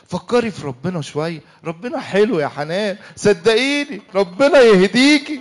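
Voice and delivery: slow, sanctimonious preacher tone; mock saintly. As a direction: play the holy innocent to needle her.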